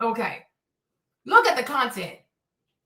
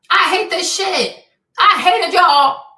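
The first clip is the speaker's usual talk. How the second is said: loud, high frustrated venting; fed-up, raised-voice rant; exasperated outburst; 5 semitones higher, 9 dB louder than usual. Real, not acted. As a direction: shout it in sheer exasperation. Venting frustration after a scream.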